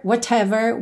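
"whatever" as "wha-tever"; sounded T. Shown as a demonstration. Teacher shows another possible form, clear T. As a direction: give "whatever" a crisp t. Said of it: "pode ser também falado de várias formas".

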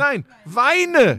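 high, loud joking shout; mock command. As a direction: bark it as a playful order. Teasing, urging him to cry. (spielerischer Befehl, laut)

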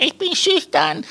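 put-on playful baby's first words, high and slow. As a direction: squeak it out like a newborn. Newborn's imagined first words.

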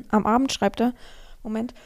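usual speaking voice

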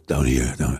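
deep throaty demo of "Down"; low throat voice. Shown as a demonstration. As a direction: show where American sits: low in the throat. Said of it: "American English is down in the throat".

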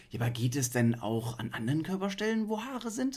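curious question ending high; studio sidekick. Pretend. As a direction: ask like an eager TV sidekick. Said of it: "Sidekick im Studio". (neugieriger Sidekick)

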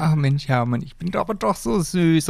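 high whiny mock sweetness; mock self-pity. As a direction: imitate her sulky excuse, high and wheedling. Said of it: "und einfach zu sagen".

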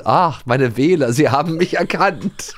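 puffed-up politician basking in applause; mayor impression. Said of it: "Bürgermeister denkt".

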